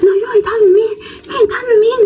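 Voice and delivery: high giggly imitation of the rival; laughing mock rival. Rival denying it, imitated with laughter. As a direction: play the rival while cracking up.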